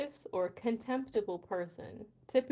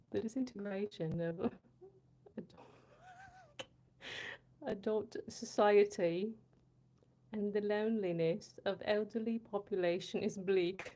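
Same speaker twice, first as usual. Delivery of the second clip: careful, put-on British reading; measured mock British, feeling out each word; British accent. Reading a viewer's difficult text, careful British accent. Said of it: "say this in a British accent".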